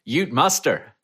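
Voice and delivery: the speaker's halting try at an Australian Ute Muster; a weak stab at Australian on Ute Muster; failed Australian accent. Shown as a demonstration. Asked to pronounce it, the speaker attempts Australian, falls flat. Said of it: "I can't do an Australian accent".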